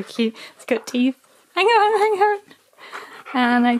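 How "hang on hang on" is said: high, louder, quick halt; urgent hang on. Real, not acted. Telling the eager husky to wait, high and urgent. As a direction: stop him mid-grab. Stopping the dog.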